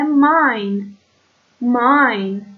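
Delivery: «ماین» slowly with a long "eye" glide. Shown as a demonstration. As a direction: draw out the "ai" in «ماین», word alone. («ماین» کشیده با صدای آی)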